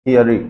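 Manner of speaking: crisp teacher demo of थियरी; correct pronunciation. Shown as a demonstration. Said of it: "इसका सटीक pronunciation है वो क्या है".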